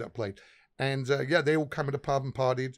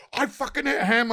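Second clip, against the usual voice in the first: higher, mock-horrified outburst; imitating appalled singer; 10 semitones higher, 5 dB louder than usual. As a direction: play the vegan's shocked realization. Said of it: "singer realizes".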